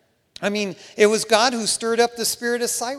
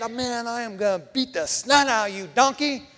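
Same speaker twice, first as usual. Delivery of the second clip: angry threat; 4 semitones higher than usual. Acted. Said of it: "He's ready to beat that".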